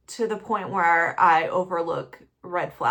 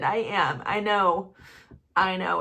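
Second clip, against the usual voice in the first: crying. Real, not acted. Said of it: "I can't stop crying".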